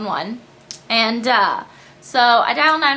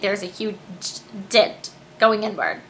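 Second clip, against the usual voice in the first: stumbling, halting over the words; stutter; 4 semitones lower, 4 dB quieter than usual. Real, not acted. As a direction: trip over the words, broken pause. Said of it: "Why did I just stutter?".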